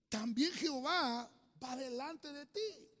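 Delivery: solemn prophetic quote. Acted. Moses speaks under anointing.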